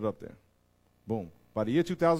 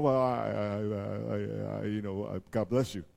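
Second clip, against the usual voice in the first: hesitant believer; 2 semitones lower, slower than usual. Retold or imitated. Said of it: "And we're going".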